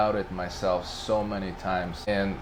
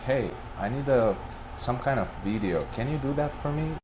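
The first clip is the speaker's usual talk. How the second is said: asking manager; 6 semitones higher than usual. Retold or imitated. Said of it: "he was like".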